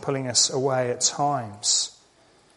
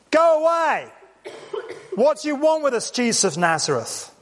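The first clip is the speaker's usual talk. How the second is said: crying out; 10 semitones higher than usual. Acted. Possessed man in the synagogue to Jesus, crying out. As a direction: shout it out at the top of your voice, then ease off towards the end. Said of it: "cried out at the top of his voice".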